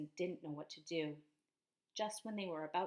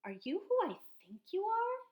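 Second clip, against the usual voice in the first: high, loud, eager question; excited child voice; 12 semitones higher, 9 dB louder than usual. Acted. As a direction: ask with wide-eyed hope. Chester asks the cat.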